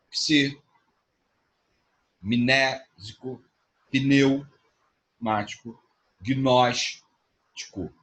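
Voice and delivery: each word drawn out very slowly, syllable by syllable; slow syllable demo. Shown as a demonstration. Teacher to students, slowly spelling out examples. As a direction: stretch every word out slowly for the class. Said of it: "Você não pode separar esses grupos".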